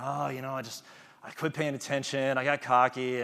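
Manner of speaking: deflated. Retold or imitated. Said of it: "he's totally down".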